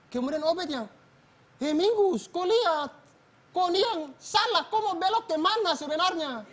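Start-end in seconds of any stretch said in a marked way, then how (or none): 1.6-6.4 higher, heated comeback blaming the other rider; angry retort. Retold or imitated. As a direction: throw the blame right back. Crash quarrel, Obed answers back.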